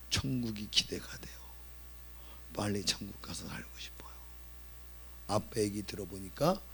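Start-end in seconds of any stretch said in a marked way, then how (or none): 0.1-4.1 put-on soft whispered childlike longing. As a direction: whisper the wish tenderly. Son's quiet longing. (아이의 바람을 속삭이듯)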